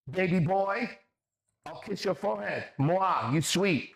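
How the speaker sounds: high, cooing mockery; mock sweet-talk. Streamer reading out an opponent's kissy taunt, mockingly.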